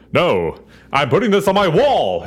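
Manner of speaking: high, indignant refusal; mock proud trooper. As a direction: puff up like a kid guarding a trophy. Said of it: "And he's like".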